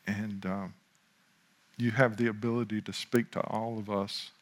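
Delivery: unhurried, earnest prayer with long pauses. Real, not acted. Pastor thanking God before teaching, in measured prayer. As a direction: pray aloud, leaving room between phrases.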